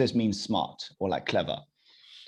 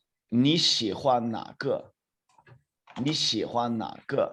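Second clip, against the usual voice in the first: slow dictation. Shown as a demonstration. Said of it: "I'm going to say this".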